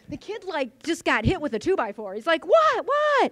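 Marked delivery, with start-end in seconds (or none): 2.5-3.3 sharp cry, much higher and louder; retelling a shocked kid's disbelieving what; stunned what. Retold or imitated. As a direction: blurt it out in disbelief. Stunned kid after interview ends.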